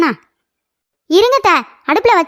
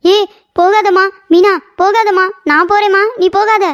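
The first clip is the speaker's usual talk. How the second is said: higher, put-on imploring; feigned pleading; 4 semitones higher than usual. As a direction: beg her to stay, for show. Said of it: "ஏய், நடிக்காதடி".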